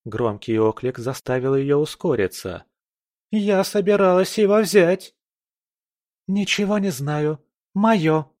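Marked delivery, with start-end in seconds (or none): 3.3-5.2 indignant woman. Acted. Rival woman protests loudly. 6.3-8.3 lightly voiced huffy pregnant woman; possessive, huffing grab; sniffing troll. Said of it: "просопел беременный тролль".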